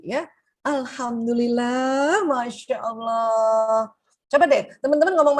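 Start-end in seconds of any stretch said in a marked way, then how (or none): 0.7-3.9 very slow, drawn-out Alhamdulillah Masya Allah; grateful awe. Shown as a demonstration. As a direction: savour each word in thanks. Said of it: "kata energi tinggi apa coba". (syukur yang pelan dan tulus)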